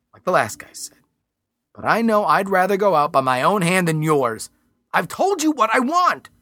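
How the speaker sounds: a hint of a desperate hostage-taker; defiant desperate man. Mister Roberts threatens negotiator.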